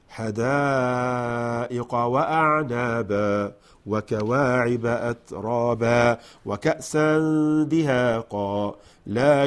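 slow, chanted tajweed reading; Quran recitation. Shown as a demonstration. Teacher reciting the passage, slow chanted tajweed. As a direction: draw out each word, melodic.

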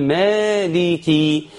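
مالكي with the first "aa" held long; careful long alif. Shown as a demonstration. Teacher warns learners about the alif, مالكي drawn out. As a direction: stretch the alif in مالكي, then a clear "ki". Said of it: "خد بالك من الألف وتقول".

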